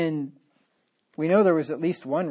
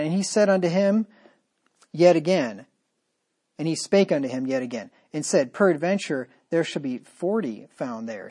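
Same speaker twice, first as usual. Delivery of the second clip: scripture reading. Acted. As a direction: read the verse with solemn weight. Reads scripture aloud in sermon.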